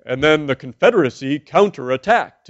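lightly voiced newsreel narrator; 1950s narrator. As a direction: intone it like an old documentary. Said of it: "who would intone".

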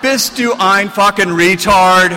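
loud, high scolding in German; angry shout. Retold or imitated. The publisher yelling in German at the author who botched the interview. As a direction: bark it in disgust.

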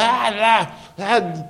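high, loud, wordless mock scolding; mock yelling mother. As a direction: imitate a mom nagging while she cooks, half laughing. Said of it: "talking, yelling".

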